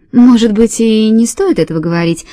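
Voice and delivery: light, chirpy twitter; chirping. Acted. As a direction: chirp the words out eagerly. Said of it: "прощебетала Фенни".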